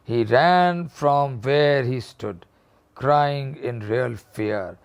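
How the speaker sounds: reading the story slowly, word by word. A narrator's reading. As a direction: read it out slowly for the class. Teacher reads the story aloud. (धीमी आवाज़ में कहानी पढ़ना)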